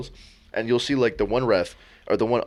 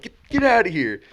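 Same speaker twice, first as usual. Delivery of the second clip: loud, raised mock ejection; umpire ejecting player; 10 semitones higher, 6 dB louder than usual. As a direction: throw him out like an angry umpire. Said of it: "And then he's like".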